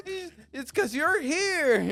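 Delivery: retold exclamation. Retelling a chat about the show, high exclamation. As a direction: exclaim it slowly with a big jump in pitch.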